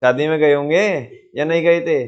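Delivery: leg-pulling singsong, words drawn out; teasing drawn out. Shown as a demonstration. Teacher demos a tone change to students, teasing and drawn out. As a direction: stretch the words into a mocking tease. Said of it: "कोई चीज को खींच के बोल दिया जाए".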